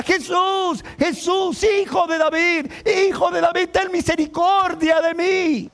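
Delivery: high, insistent cry for mercy; shouting plea. Acted. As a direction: cry out over and over to someone passing. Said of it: "gritándole a Jesús".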